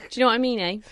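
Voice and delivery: "eh" added at the end; tagged eh. Shown as a demonstration. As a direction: tack a rising "eh" onto the end. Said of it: "I keep adding A".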